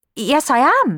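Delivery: stammering. Narrator reading Cenerentola's reply to the visitor's question: stuttering. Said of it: "stuttered Cenerentola".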